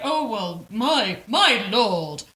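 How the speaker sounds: high, loud hammed-up British toffs babbling; a silly parody of British aristocrats chattering; mock posh British. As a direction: ham up stuffy English lords.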